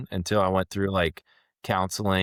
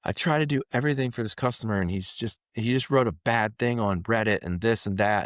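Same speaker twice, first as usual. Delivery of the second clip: imitating a flustered coworker, slightly raised pitch; 4 semitones higher than usual. Customer service rep venting to her boss about a customer, flustered. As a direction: retell it hurriedly, a touch flustered. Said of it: "she's flustered".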